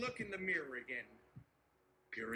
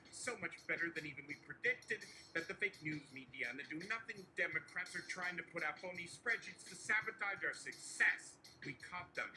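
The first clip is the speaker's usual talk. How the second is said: Donald Trump impression. Trump to nervous aide Barry, boastful and coaxing. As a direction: reassure Barry like Trump spinning a win.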